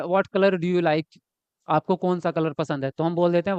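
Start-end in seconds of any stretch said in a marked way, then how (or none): 0.0-1.2 slow, spelled-out What color do you like?; mock everyday question; casual everyday English. Shown as a demonstration. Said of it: "जैसे हम कह देते हैं".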